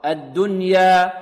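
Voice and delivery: slow الدنيا with the final vowel drawn out wrongly; mistaken stop. Shown as a demonstration. Teacher shows a mistake, الدنيا slow with an overdone ending. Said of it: "خطأ".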